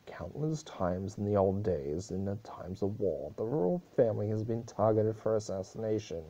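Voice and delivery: loud, formal royal proclamation; stern princess passing judgment. Acted. Celestia addressing the throne room, loud and stern. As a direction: pronounce the sentence like a wrathful goddess.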